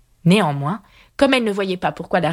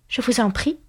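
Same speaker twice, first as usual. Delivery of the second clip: very polite; 6 semitones higher than usual. A narrator's reading. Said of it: "dit Alice très poliment".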